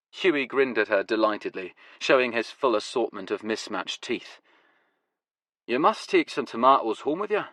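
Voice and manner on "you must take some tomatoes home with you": put-on Glasgow accent. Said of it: "his Glasgow accent now going full throttle".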